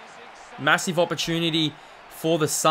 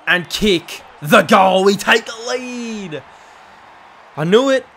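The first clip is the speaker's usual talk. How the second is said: excited cheer; 3 semitones higher, 5 dB louder, slower than usual. Real, not acted. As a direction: savour taking the lead. Taking the lead, excited.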